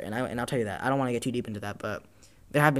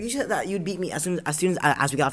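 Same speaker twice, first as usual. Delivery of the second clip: mild mock-angry callout, pitched higher; retold accusation; 5 semitones higher than usual. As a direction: throw the lie back at her, higher and heated. Retold confronting girl who lied.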